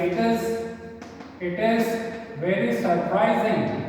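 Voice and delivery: very stretched words, long pauses; drawn-out classroom dictation; slow dictation. Shown as a demonstration. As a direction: dictate slowly, phrase by phrase. Dictating the assertive version slowly.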